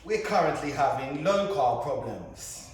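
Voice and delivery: put-on posh English accent; plummy posh accent, mock-grand. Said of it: "Do you like my posh voice?".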